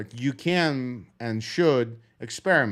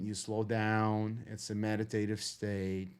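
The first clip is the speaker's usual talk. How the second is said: slow calm talk; 7 dB quieter than usual. Shown as a demonstration. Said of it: "talking like this and slow".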